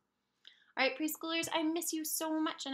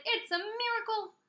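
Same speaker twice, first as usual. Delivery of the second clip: excited shout; 5 semitones higher, 4 dB louder than usual. Acted. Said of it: "They shouted".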